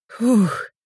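a high startled gasp out; frightened exhale. A narrator's reading. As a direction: breathe out in fright after the fall. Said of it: "испуганно выдохнула".

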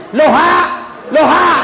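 high-pitched holler, played for laughs; mock phone holler. Caller reversing his hello into the handset, mock holler. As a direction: call out the silly word in mock earnest. Caller says halo backwards, loudly.

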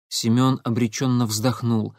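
ordinary delivery, nothing marked

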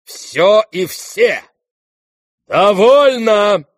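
loud, high, slow declamation; drawn-out, outraged protest; indignant outburst. Acted. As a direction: announce an offended exit with great ceremony. Offended general storms out, acted.

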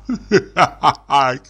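hearty doting chuckle; fond laugh. Acted. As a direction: laugh over the dog fondly. Dubov doting on dog.

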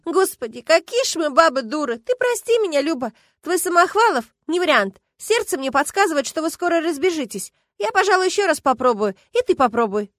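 animated, breathless phone talk; excited friend. Acted. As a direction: gush apologies and advice. Friend lively apologises, advises.

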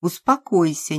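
usual speaking voice

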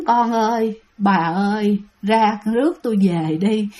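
low, fading moan from the dead; ghostly moaning. Retold or imitated. Ghost still heard as the boats row away, low moan. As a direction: moan it lightly, like a spirit left behind. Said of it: "rên như vậy đó các bạn".

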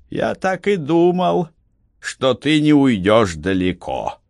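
a sneering Roman commander. A narrator's reading. Commander's voice in story. (насмешливый голос командира)

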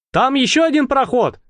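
put-on high, eager boyish voice; lightly voiced lad popping up with news; excited young Bolt. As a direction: blurt it out like an eager kid.

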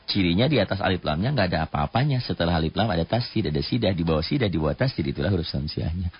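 hurried run through the rule; rapid explanation. Real, not acted. Teacher rushing through the letter rule for students, rapid explanation. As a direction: rattle the explanation off without pausing. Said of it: "Cepet-cepet amat".

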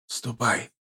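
put-on soft, exhausted old man. A narrator's reading. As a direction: murmur it, nearly asleep. Grandfather dismisses, fading to sleep. (тихо, устало, по-стариковски)

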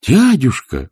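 high, drawn-out plea; pleading. A narrator's reading. Nephew begging his uncle to relent, pleading. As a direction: cry out imploringly. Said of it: "взмолился племянник".

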